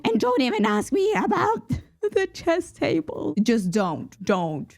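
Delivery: can barely get it out for laughing. Real, not acted. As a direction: break into laughter mid-sentence. Breaks up over the chess table.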